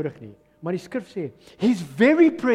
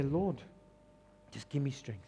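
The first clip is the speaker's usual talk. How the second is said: much softer, lower, spent plea; weary prayer; 8 semitones lower, 13 dB quieter than usual. Acted. Tired believer quietly begs the Lord for strength. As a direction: barely get the words out, exhausted.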